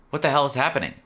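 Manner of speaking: high, loud panicked question; alarmed shout. A narrator's reading. Narrator shocked by the strange blue fire. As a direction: blurt it out in shock.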